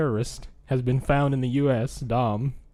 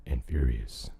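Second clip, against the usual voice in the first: Dom voice; 3 semitones lower than usual. Retold or imitated. Dom's punchline voice.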